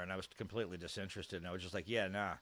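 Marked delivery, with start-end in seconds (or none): 1.9-2.3 put-on slight Aussie accent. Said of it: "I even said it with a bit of an accent".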